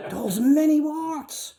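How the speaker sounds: can't keep a straight face; laughing. Real, not acted. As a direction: read slowly through a laugh. Reader laughing while reading.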